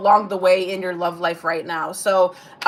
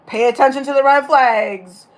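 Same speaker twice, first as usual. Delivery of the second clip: mock inner warning voice; 3 semitones higher, 5 dB louder than usual. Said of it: "you're like".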